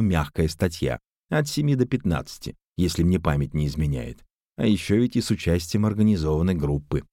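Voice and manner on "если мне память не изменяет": ordinary delivery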